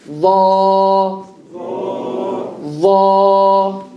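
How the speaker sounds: Va. as emphatic dha, tongue between the teeth; a heavy, hollow Va; heavy Arabic letter. Shown as a demonstration. Teacher modelling the heavy letter for students. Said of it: "The va is a heavy letter".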